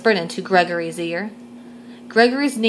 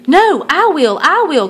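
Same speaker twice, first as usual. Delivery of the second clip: higher, louder insistent claim; eager cry; 7 semitones higher, 6 dB louder than usual. Acted. Greta racing Gregory to show Grampy, eager loud cry. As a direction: grab the turn before him. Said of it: "cried Greta".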